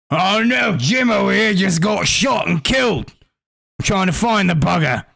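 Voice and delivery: a flustered guard raising the alarm. Acted.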